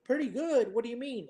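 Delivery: high-pitched mock disbelief; incredulous questioning. Speaker retells objecting to "pretty good", incredulous. Retold challenge to faint praise.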